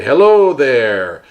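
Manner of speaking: slow, drawn-out puppet greeting; a lightly voiced puppet saying hello; hint of a slow puppet voice. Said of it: "So I can say".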